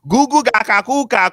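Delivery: put-on high playful baby babble; baby talk. Friend teasing Joseph with baby-talk nonsense. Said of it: "we're just talking nonsense".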